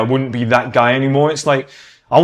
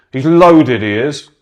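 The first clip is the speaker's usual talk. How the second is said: louder mock excitement; 4 dB louder, slower than usual. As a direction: burst out as a gushing fan. Mocking people impressed by money.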